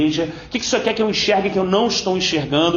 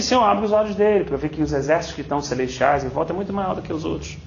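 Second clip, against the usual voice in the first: lower, calm and unhurried prayer; steady low reassuring prayer; calm prophet prayer; 4 semitones lower than usual. Retold or imitated. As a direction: voice the prophet at peace. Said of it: "O profeta tá tranquilo. Falou assim".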